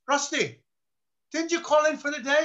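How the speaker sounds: high-pitched mock boss confronting his man; incredulous. Baffled lieutenant confronts real Rusty.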